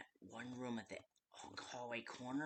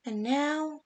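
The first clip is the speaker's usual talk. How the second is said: booming, slow, much louder villain taunts with big high swoops; menacing villain; 9 semitones higher, 27 dB louder, much slower than usual. Acted. The villain taunts the trapped player, roaring slow menacing threats. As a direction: loom over them and gloat, drawing every word out.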